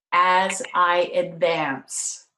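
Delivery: slow, deliberate quote reading; spaced out for note taking; slow dictation. Shown as a demonstration. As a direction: read it slowly so they can write it down. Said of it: "I'm gonna say this very slowly".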